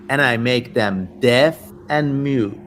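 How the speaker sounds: lightly voiced sinister demon. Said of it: "I'm just getting into character now".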